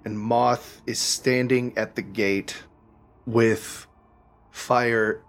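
measured narration with suspenseful pauses; game master's scene-setting. A narrator's reading. Game master describing the burning Underdark village, measured and suspenseful. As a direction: unfold the scene piece by piece.

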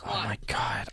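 breathless disgusted whisper. Real, not acted. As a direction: whisper it in dread. Reacting to the gross drink.

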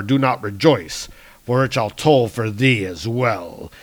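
lightly voiced thunder god, declamatory; a touch of solemn warning; grave defiant hero. Hero warning his villainous stepbrother of shared doom, grave.

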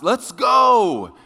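loud, high yell across the house; husband late for church, calling out loudly to his wife. Retold or imitated. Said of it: "you kinda yell out".

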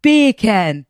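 Beer can with a British accent, beer as /pi/. Shown as a demonstration. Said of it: "with a British accent".

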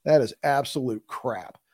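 firm Midwestern accent. Real, not acted. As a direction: say it with Midwestern vowels. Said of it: "said that in my Midwestern accent".

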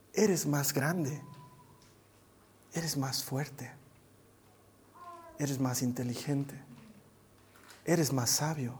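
slow, low, soft reverent prayer; hushed awe. Acted. Humbled believer praying to God, hushed awe. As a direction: let each phrase fall softly, with long pauses.

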